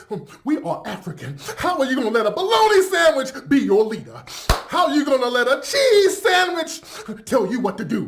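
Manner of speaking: mock him as a ranting crackhead; mocking his rant. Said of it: "arguing about".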